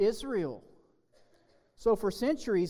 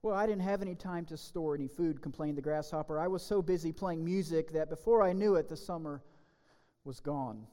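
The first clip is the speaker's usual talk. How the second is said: lively storybook reading; children's story read with gentle drama. Acted. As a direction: tell the fable to kids in church. Reads fable to the children.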